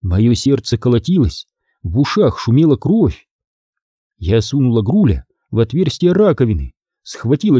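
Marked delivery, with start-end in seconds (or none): none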